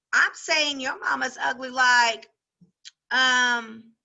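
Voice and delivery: lively classroom read-aloud with voiced characters; story read aloud. Teacher reading a chapter to her class, lively read-aloud. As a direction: read it out to the class, giving each girl her voice.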